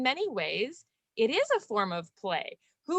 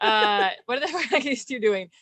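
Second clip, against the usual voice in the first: laughing onlooker; 5 dB louder than usual. Retold or imitated. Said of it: "they'd be like".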